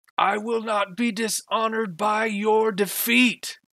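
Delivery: loud, very high, shrill, piercing, echoing cry. Narrating a scene, voicing a voice heard echoing all around, loud shrill voice. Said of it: "It's a shrill voice".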